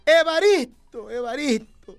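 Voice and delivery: hammed-up wailing at a wake; a mourner's hammed-up crying over the coffin; mock sobbing. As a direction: lament your friend with a mock sob. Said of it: "Y lloraba y decía".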